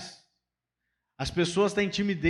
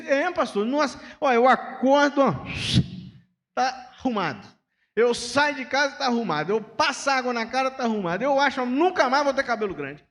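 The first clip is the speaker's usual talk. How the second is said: higher and louder, gushing about the shaved head; enthusiastic friend; 7 semitones higher, 5 dB louder than usual. Retold or imitated. Carlos praising his shaved head to the pastor, high and enthusiastic. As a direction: gush with joy. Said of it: "Carlos delighted with bald head".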